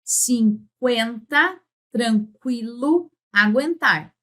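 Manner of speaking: "cinquenta, tranquilo, aguentar" drawn out slowly, the u in "qu" and "gu" clearly sounded; slow deliberate model words for the class; clear careful pronunciation. Shown as a demonstration. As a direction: spell each word out by voice, slowly. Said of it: "por exemplo".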